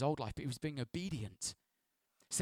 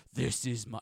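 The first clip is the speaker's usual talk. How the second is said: voice of God; 2 semitones lower than usual. Shown as a demonstration. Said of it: "I'm guessing it's gonna be like".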